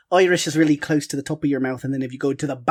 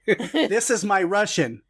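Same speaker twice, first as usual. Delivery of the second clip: same voice Russian; 4 semitones higher, slower than usual. Shown as a demonstration. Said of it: "I just do the same voice for everything".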